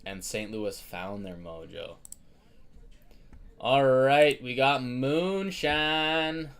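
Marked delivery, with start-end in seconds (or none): 3.6-6.5 loud, high, thrilled shout-out; excited. Real, not acted. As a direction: hype up the buyer's grab. Buyer grabs spots live.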